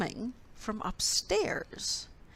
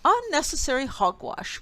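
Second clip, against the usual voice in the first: louder, higher scolding snap; 7 semitones higher, 6 dB louder than usual. A narrator's reading. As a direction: scold the little mouse. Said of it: "Bear scolded".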